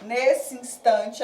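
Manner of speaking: "nesse instante" slowly, final vowel of "nesse" merged into "instante"; slow, deliberate elision in "nesse instante"; joined vowels. Shown as a demonstration. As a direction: link "nesse" to "instante" as one drawn-out run. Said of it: "como se eu juntasse as palavras".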